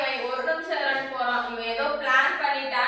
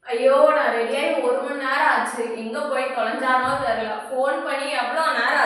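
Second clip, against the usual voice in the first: exasperated wail; 3 semitones lower, 4 dB louder than usual. Acted. Wife waiting in pain, fed up.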